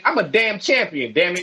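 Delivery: shouted brag with laughter; triumphant shout. Real, not acted. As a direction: yell it like a champ. Boasting champion shout.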